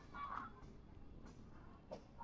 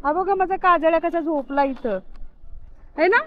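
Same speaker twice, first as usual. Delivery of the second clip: high, loud, affectionate calling; raised voice, half fond, half warning; calling the dogs; 6 semitones higher, 5 dB louder than usual. Real, not acted. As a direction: call out to the pets and stop him going down.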